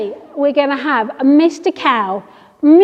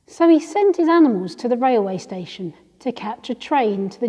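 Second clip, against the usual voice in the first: softer read-aloud storytelling voice; story narration; 4 dB quieter than usual. A narrator's reading. Reading a farm story to small children, softly narrated. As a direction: read it gently, dropping away at phrase ends.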